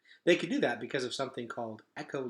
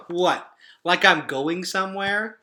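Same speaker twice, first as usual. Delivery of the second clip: mild aggravation; 6 semitones higher, 7 dB louder, slower than usual. Acted. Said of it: "said Gregor with aggravation".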